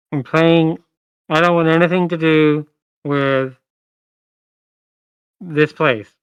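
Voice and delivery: muffled, smothered voice. Storyteller voicing a character hidden in a cocoon, answering the players, muffled voice. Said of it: "You hear this voice is very muffled".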